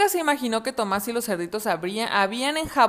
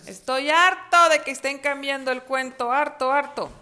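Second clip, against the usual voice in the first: fed-up wolf; 5 semitones higher than usual. Acted.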